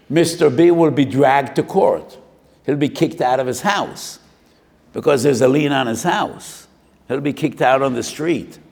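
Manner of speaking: loud, high preaching warning; stern warning. Acted. Preacher warning the congregation of judgment, loud and high. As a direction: hammer home the punishment.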